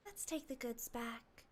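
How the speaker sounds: a hushed, mournful take on Kokomi; sad Kokomi voice. Retold or imitated. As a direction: mimic her sad, subdued line. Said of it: "It's easier to do her voice when she sounds sad".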